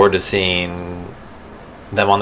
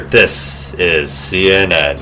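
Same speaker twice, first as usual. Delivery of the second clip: CNN voice; much slower than usual. Retold or imitated. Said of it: "all the voices he does".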